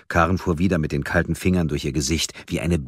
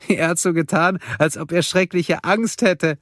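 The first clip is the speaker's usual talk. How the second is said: high, louder voice bubbling with laughter; laughing; 4 dB louder than usual. Acted. Karen laughing to Mia about William's fake fear, giggly high voice. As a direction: laugh through it, delighted. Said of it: "lachte Karen".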